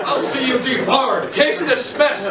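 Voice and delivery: high, slow outraged pronouncement, laughing; indignant judge. Acted. Judge scolding the prosecutor and ending the case, high and outraged. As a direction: bellow the ruling high and scandalized.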